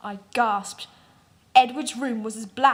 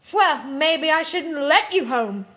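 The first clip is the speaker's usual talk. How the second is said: slow, louder, put-on preppy girl voice; preppy drawl; 4 semitones higher, 5 dB louder, slower than usual. A narrator's reading. Bella blocking their way home, slow smug preppy voice. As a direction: stretch it out like a smug prep. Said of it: "said Bella preppily".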